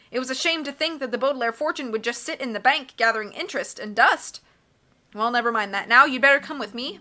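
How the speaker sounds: lightly voiced fussy banker. Narrator voicing Mister Poe.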